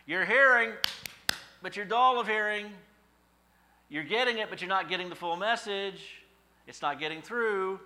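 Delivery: high, loud, forceful rebuke; loud preacher's reprimand; preaching rebuke. Acted. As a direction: hit them with it full force. Preacher's smack in the face.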